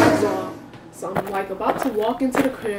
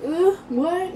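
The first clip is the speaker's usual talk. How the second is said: higher, groggy puzzled "what"; confused brother; 8 semitones higher than usual. Retold or imitated. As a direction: act half-awake and confused. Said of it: "acting all confused".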